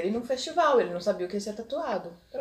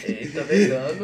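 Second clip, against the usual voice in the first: laughing; 6 dB louder than usual. Real, not acted. Laughing at the vegan joke.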